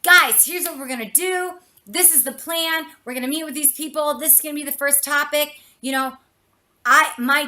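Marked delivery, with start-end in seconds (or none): 0.0-5.6 excited. Shown as a demonstration. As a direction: fire the room up. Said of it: "if I walk in and I'm like".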